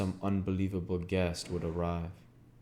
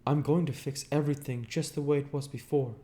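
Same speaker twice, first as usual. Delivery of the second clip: higher, louder resolute Gatsby; determined Gatsby; 8 semitones higher, 4 dB louder, faster than usual. A narrator's reading. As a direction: promise it with conviction. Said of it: "nodding determinedly".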